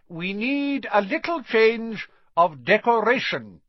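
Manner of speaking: high, called-out headmaster voice; Dumbledore calling out. A narrator's reading. Dumbledore calls over the applause, high and ringing. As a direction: call it over the cheering crowd. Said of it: "Dumbledore called over the storm of applause".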